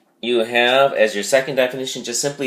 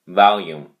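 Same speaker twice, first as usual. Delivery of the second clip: "volume" louder, falling, stressed on VOL; 4 dB louder than usual. Shown as a demonstration. Teacher confirming the stress on VOL. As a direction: land firmly on VOL in "volume". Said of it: "the emphasis on the first syllable".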